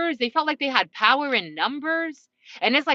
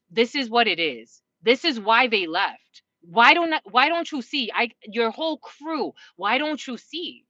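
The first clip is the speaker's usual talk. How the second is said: retold reader telling them. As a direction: lay it out like a blunt reader. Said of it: "Someone told them".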